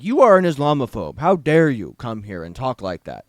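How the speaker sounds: loud indignant accusation, mocking the mayor; hammed-up outrage thrown back at the critic; host mocks the mayor calling a critic Islamophobe, in loud mock indignation. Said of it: "the mayor being like".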